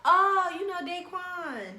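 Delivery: slow, high put-on voice of the friend; friend's voice. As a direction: drag it out like the friend did. Friend voiced in retold story.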